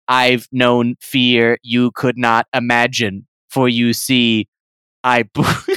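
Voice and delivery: low, slow grim hero voice; defiant hero. Acted. Bilbo defying the creature, low and grim. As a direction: intone it low like a stoic hero.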